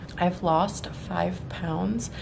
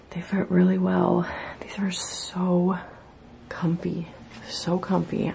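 whispering. Real, not acted. Late night whisper continues.

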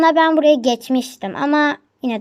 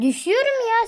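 screaming while falling; 9 semitones higher than usual. Real, not acted. Falling in game, upset.

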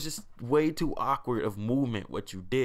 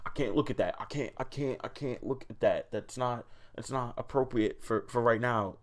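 mock prudish flinch. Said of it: "you're like".

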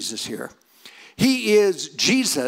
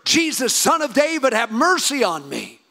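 higher, pleading call, a touch louder; mild crying out louder; 4 semitones higher than usual. Retold or imitated. Blind man calls louder over the hushing crowd, mild pleading cry. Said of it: "keeps crying out even louder".

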